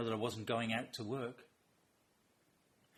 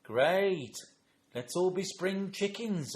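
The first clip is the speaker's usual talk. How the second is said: loud, raised mock enthusiasm; rally a small child with forced cheer; exaggerated grandparent jollity; playing along; 7 semitones higher, 9 dB louder, much slower than usual.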